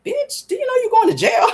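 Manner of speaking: mock scolding. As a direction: laugh at her disbelievingly. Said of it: "I'm like".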